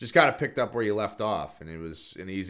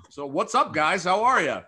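excited greeting; 11 semitones higher, 8 dB louder than usual. Real, not acted. Host greets guests enthusiastically.

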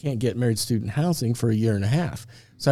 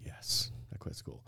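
hushed, embarrassed near-whisper; embarrassed admission; 17 dB quieter than usual. Retold or imitated. Admitting to the registration lady he quit school, embarrassed whisper. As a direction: admit it under your breath, slowly and sheepishly.

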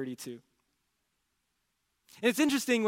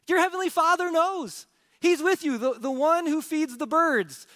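fervent proclamation; 10 semitones higher, 5 dB louder than usual. Real, not acted. Preacher's rising proclamation.

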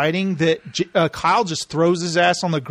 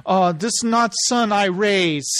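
put-on slow, broken English in a Greek accent; hammed-up Greek immigrant accent; mock Greek accent; slower than usual. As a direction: imitate a dismayed Greek parent, drawn out. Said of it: "these Greek people who barely t-, speak English".

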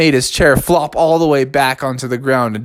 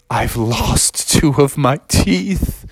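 slow, dazed lament; stunned kid; slower than usual. Acted. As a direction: say it in disbelief. Bubby in shock.

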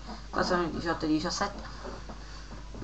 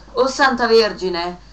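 loud, slow, higher priestly exclamation; esclamazione; 5 semitones higher, 8 dB louder, slower than usual. Acted. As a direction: cry out to the Virgin, drawn out. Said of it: "esclamò il buon prete". (esclamazione accorata ad alta voce)

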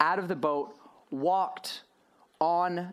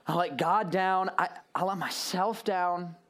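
slow self-blame. Retold or imitated. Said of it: "you look at it and you're like".

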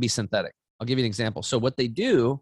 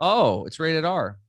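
mock dismay; 5 semitones higher, 3 dB louder, much slower than usual. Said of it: "mom repeating daughter".

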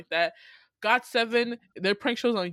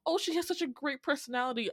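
quoted MCs; 5 semitones higher, 4 dB quieter than usual. Retold or imitated. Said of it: "and they're just like".

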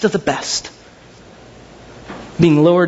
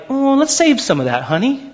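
mock housewife; 5 semitones higher than usual. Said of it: "It wasn't like".

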